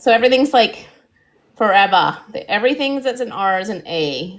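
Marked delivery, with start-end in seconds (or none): 1.5-2.2 loud Australian "forever" with the R's dropped; mock Australian accent. Woman mocking Australian speech to her co-host, loud Australian accent. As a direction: imitate an Australian "forevah", R-less. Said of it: "don't pronounce their R's".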